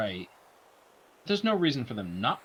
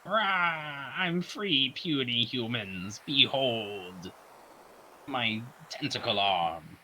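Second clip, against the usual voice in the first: booming arrogant alien overlord; 4 dB quieter, much slower than usual. Retold or imitated. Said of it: "a Skeletor kind of voice".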